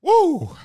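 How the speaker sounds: high cheering whoop; loud whoop. Real, not acted. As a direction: let out a big woo. Cheering after ad.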